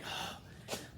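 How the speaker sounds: mock huff of frustration; exaggerated breathy gasp; frustrated gasp. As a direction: imitate a put-out student's gasp. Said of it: "people will get frustrated with me".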